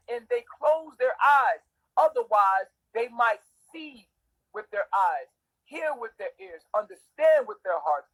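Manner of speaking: emphatic, declaimed Bible reading with falling line ends; preacher reciting a parable passage; scripture reading. Acted. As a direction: read scripture out firmly, punching key words. Reads scripture aloud to listeners.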